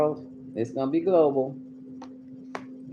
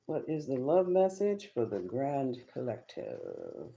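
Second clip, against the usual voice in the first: softer and slower, as if asking the cards; slow hushed question; 6 dB quieter, slower than usual. Shown as a demonstration. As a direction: lay the question down gently to the deck. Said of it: "asks the cards again, intoned".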